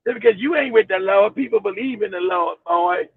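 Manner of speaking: lightly voiced low scolding elder; mock elder's rebuke. Voices elder rebuking him for disbelief.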